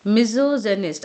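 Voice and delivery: मिज़ोजेनिस्ट with a z in the middle, "mizo-zenist"; "za" sound. Shown as a demonstration. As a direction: model मिज़ोजेनिस्ट as "mizo-ZE-nist". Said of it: "यहाँ पे जो sound आएगा". (मिज़ोजेनिस्ट, बीच में "ज़" की आवाज़)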